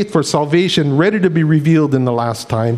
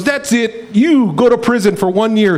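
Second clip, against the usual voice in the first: mildly indignant, higher-pitched royal verdict; upset king; 5 semitones higher than usual. Retold or imitated. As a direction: act out a king's annoyed sentence. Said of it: "He was so upset".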